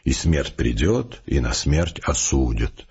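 slow, muffled, hooting poem reading; hollow hooting recitation. Acted. Vecherovsky recites a poem to gloomy Malyanov, slow hollow hooting. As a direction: boom the verse out slowly, savouring it. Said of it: "это глуховатое уханье".

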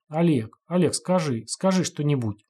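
ordinary delivery

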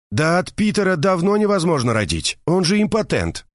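high, indignant gossiping woman; indignant Mercedes. A narrator's reading. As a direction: pour out the outrage to a friend. Mercedes complains at length. (возмущённая Мерседес жалуется подруге)

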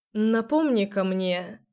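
hoarse, faltering voice; voice giving out. Acted. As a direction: let the voice sink and crack. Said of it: "Голос предательски осел".

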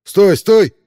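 high, loud desperate cry; frantic shout. Acted. Rollo begging the sniper not to shoot, shouting. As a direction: yell to stop them. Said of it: "крикнул Ролло".

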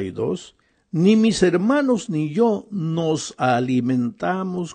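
deliberate, emphatic scripture reading, key phrases stretched; measured reading aloud, weighting key words; slow reading. Real, not acted. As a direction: read it slowly so they can think. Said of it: "lo voy a leer lentamente".

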